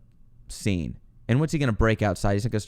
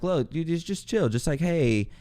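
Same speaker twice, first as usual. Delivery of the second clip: calming a friend down; 4 semitones higher, 4 dB quieter than usual. Retold or imitated. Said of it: "I'm trying to calm him down".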